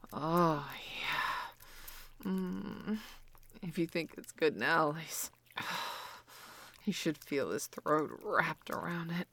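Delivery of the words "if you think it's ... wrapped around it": hushed whisper with a sigh. Acted. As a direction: lean in and whisper it. Whispered aside to Lisa.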